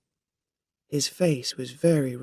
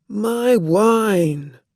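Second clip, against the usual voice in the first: louder, higher dismayed cry; cried out; 6 semitones higher, 8 dB louder than usual. A narrator's reading. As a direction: wail over the lost wine. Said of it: "the man cried".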